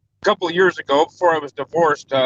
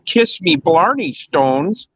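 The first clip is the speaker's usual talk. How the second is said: mock Irish brogue; slower than usual. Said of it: "And I said".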